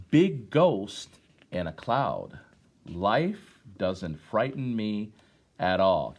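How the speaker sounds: put-on slow, measured poetry reading to children; poem recitation. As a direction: let each line land with a pause. Reads poem to class.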